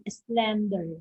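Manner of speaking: "slender" with SLEN stressed; stress on first syllable. Shown as a demonstration. Teacher giving an example adjective, first-syllable stress. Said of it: "stress here is found in the first".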